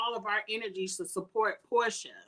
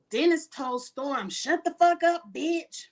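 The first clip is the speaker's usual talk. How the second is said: raised, higher-pitched mock telling-off; heated retold outburst; 6 semitones higher, 4 dB louder, slower than usual. Host quoting a man cursing out a woman, heated. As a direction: throw the insult out high and forceful. Retelling a man's angry outburst.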